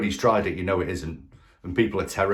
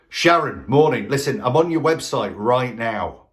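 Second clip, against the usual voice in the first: bold businesslike opener; 3 dB louder than usual. Shown as a demonstration. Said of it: "businesslike and bold".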